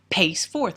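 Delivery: "pace forth" with both words stressed; spondee stress. Shown as a demonstration. Lecturer demonstrates another spondee, "pace forth" with two strong beats. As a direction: give "pace" and "forth" equal weight. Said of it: "Again, another spondy".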